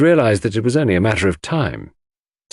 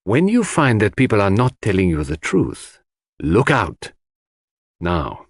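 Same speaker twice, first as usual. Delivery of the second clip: grave. Acted. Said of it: "replied Poirot gravely".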